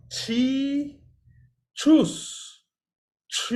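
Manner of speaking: chi, then high rounded choose, then chi with lips kept rounded; three-step demo. Shown as a demonstration. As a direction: model it for students. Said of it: "So you pronounce".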